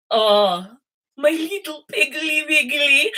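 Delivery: put-on high, drawn-out German-accented cooing; Missus Gloop's German accent. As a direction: put on a hammed-up German stage accent, slowly. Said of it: "had this accent".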